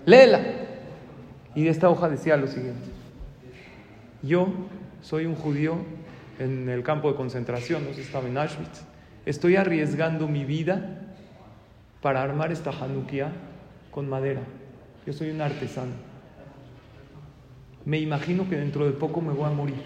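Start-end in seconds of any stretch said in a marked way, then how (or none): 0.1-0.4 sudden loud, raised burst; urgent command. Acted. Shaken man handing his wife the letter, loud urgent order. 4.2-19.8 soft, measured reading with pauses; solemn letter reading. Acted. Camp prisoner writing of risking his life, solemn and subdued.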